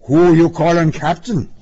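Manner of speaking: loud, high, offended cop; affronted police bellow; indignant demand. A narrator's reading. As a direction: challenge him loudly. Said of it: "the cop demanded".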